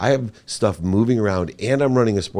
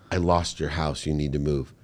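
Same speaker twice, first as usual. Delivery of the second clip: quieter, choked retelling of "I lost your house"; tearful confession; 3 semitones lower, 3 dB quieter than usual. Retold or imitated. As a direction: say it softly as if holding back tears. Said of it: "I'm crying while I'm saying it".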